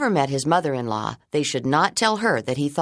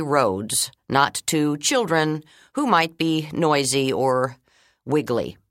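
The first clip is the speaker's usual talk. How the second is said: principal voice; 2 semitones higher than usual. Acted. Principal continues announcement.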